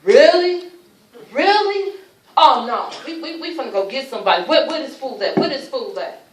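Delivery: loud, high, outraged yelling; furious shout. Retold or imitated. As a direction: explode at the sight of her. Son furious at seeing her.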